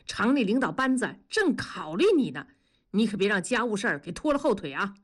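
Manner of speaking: lightly voiced brash friend, lecturing; blunt buddy, scolding. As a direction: give your mate an earthy talking-to.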